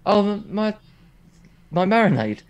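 giggling through the words; laughing. Real, not acted. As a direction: laugh it out, caught off guard. Embarrassed by marinade question.

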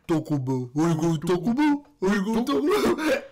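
lightly put-on dad calling out Taco Bell; mocking dad voice. Mocking a friend's dad asking where you're going, light put-on voice. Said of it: "He says it like this".

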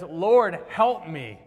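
loud, urgent begging; desperate plea. Acted. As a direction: cry out for help from her knees. Kneeling woman begs Jesus.

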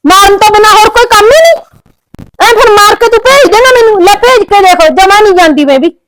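defiant outburst. Acted. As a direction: fling the challenge at him.

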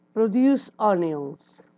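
slow, careful model pronunciation, "Produce onions" with each syllable drawn out; teacher modelling "Produce onions" slowly and clearly; slow model word. Shown as a demonstration.

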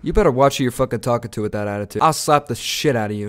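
tough talk in a faked Boston-like accent; mock threat, Boston-style accent; Boston-sounding accent. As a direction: threaten in a badly put-on accent, landing near Boston. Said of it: "Now you sound like you're from Boston".

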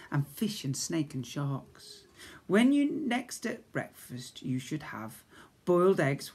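lively sing-song poem reading. Acted. Teacher reading a funny poem to Year One children, sing-song. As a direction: read it out bouncy, like a giggly rhyme.

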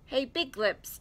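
high, loud character call; brash storybook shout. A narrator's reading. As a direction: holler up to someone overhead. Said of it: "Tigger shouted".

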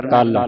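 ਕਲ said with weight on the "l"; heavy pronunciation. Shown as a demonstration. Teacher shows students the heavy sound, ਕਲ weighted. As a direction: make ਕਲ heavy, as kall. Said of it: "ਭਾਰਾ ਕਰਕੇ ਉਚਾਰਨ ਕਰਨਾ ਹੈ".

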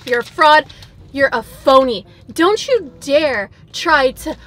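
loud, punchy call-out at the restaurant; angry accusation. Real, not acted. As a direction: scold Jack in the Box like a cheated customer. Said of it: "I'm angry".

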